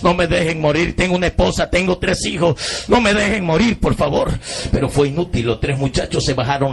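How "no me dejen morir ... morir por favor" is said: retold plea, pitch rising toward the end; begging not to be left to die, half-performed; mock desperate begging; pleading for help. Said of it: "pidiéndole auxilio".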